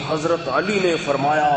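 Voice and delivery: imitating a shouting preacher, held back in volume; imitated preacher's shout. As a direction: stretch it out like a half-hearted pulpit yell. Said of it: "بہت چیخ کے".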